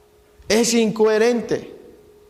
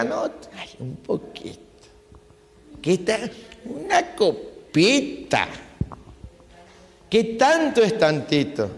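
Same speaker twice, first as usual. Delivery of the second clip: mock tempting, hushed and coaxing; lightly voiced sly temptation, half whispered; coaxing temptress; 4 dB quieter than usual. Preacher mimics a believer tempted by a drink, hushed coaxing. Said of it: "a lo mejor te diga".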